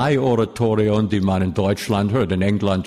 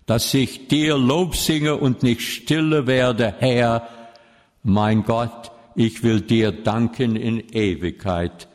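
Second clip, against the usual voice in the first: solemn psalm reading. Acted. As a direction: read the psalm as a prayer before the congregation. Reads Psalm 30 as prayer.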